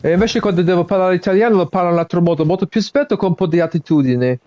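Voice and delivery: quick, lively Italian with a bit of attitude; switching to Italian to show how he sounds in it; speaking Italian. Shown as a demonstration. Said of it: "So that's me now speaking Italian".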